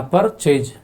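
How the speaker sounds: परचेज split into two beats, पर and चेज; two-syllable demonstration. Shown as a demonstration. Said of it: "दो बार में बोला जा रहा है". (परचेज को दो हिस्सों में, पर-चेज बोलते हुए)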